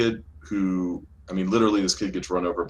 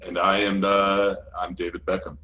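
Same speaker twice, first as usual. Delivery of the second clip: unsure. Real, not acted. Co-host introducing himself on the show, unsure. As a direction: introduce yourself as if unsure who you are. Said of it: "You don't sound very sure of yourself".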